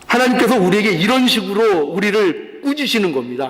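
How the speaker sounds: ordinary talk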